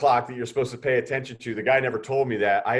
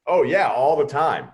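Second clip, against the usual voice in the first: mock eager yes; 5 semitones higher, 8 dB louder, slower than usual.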